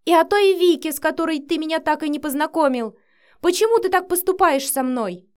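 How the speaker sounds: loud, high accusing outcry; a child furious at her father; обиженный крик ребёнка; tearful tantrum. A narrator's reading. Daughter's angry tantrum.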